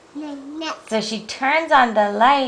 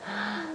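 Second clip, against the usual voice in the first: soft gasp of surprise; sudden mock gasp; 16 dB quieter than usual. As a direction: gasp softly, as if startled.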